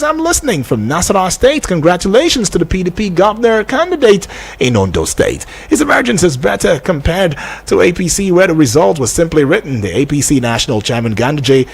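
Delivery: presenter reading a text message; reading listener message aloud. Real, not acted. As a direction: read a listener's question out on air.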